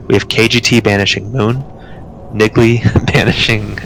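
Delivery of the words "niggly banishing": real laugh breaking into the words; slowly, stifling a laugh mid-announcement. Real, not acted. Raid leader reading out banish assignments, laughing at a name. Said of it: "I'm sorry for laughing".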